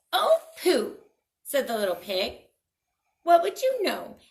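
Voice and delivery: high, loud dismissive pooh-pooh; scornful pig. Acted. Little pig scoffing at the seller, high and dismissive. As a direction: brush him off with disdain.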